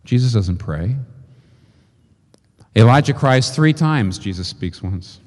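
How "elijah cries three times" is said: loud. Shown as a demonstration. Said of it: "just talking kinda like this".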